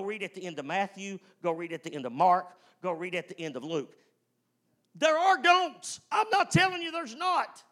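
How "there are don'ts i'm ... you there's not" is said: emphatic preaching. Acted. Preacher conceding to congregation, loud high emphasis. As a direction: shout it out to the church.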